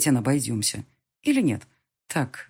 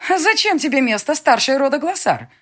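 high, loud outraged stepmother; indignant; 10 semitones higher, 6 dB louder than usual. Acted. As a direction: bristle with outrage. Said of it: "возмутилась тем временем и Дема".

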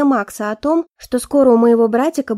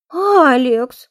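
whiny protest; 5 dB louder than usual. Acted. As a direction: whine his name in outrage. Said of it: "плаксиво возмутилась она".

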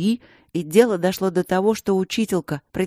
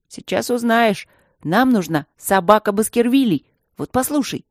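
eager excitement; 5 semitones higher, 3 dB louder than usual. Acted. Zhenka eager about his plan.

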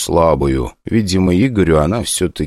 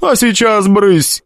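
shooing hiss; 14 semitones higher, much slower than usual. Acted. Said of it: "шикнула на него Силикона".

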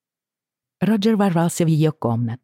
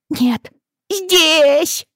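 put-on crying child; 4 dB louder than usual.

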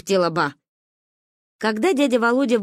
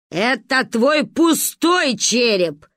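slow scolding snap, a bit louder; 4 semitones higher, 4 dB louder, much slower than usual. Acted. Grandma scolds the whining girl, slowly and firmly. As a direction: tell her off slowly and firmly. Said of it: "ругалась Ба".

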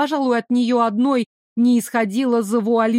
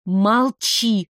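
understated warning, not shouted; mildly threatening. A narrator's reading. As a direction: order silence with a touch of threat. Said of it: "угрожающе потребовала я".

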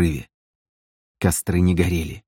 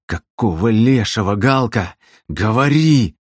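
angry demand; 2 semitones higher than usual. Acted. Bely shakes Galka, demands answers.

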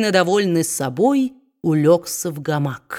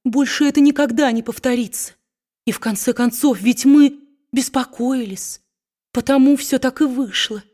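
a hint of a timid wife, pitched higher; wife apologizing to her husband, lightly voiced; lightly voiced pleading wife; 6 semitones higher than usual. A narrator's reading. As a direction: plead quickly, trying to excuse herself. Wife's voice in the story.

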